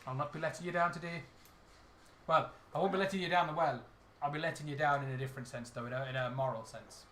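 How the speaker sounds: lighter Irish brogue, settling down; Hollywood Irish. Acted. Irish character apologetically refusing the lads, mild Hollywood Irish. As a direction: let the Irish lilt ease off. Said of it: "This is what I call Hollywood Irish".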